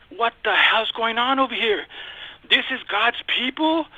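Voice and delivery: retold incredulous question, pitched high; dismayed disbelief. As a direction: question it in let-down disbelief, drawing out the end. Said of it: "the most disappointing thing ever".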